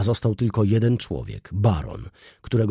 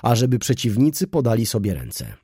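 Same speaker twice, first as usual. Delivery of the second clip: solemn; 3 semitones higher, 5 dB louder than usual. Acted. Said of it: "rzekł uroczyście hrabia Anglik".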